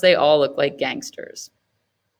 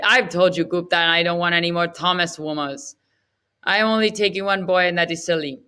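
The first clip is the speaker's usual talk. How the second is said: annoyed; faster than usual. Acted. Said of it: "Sachi gets annoyed".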